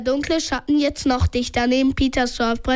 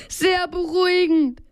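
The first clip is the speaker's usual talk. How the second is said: mildly called retort; lightly raised, higher-pitched reply; storyteller's modest call; 4 semitones higher than usual. A narrator's reading. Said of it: "rief Peter".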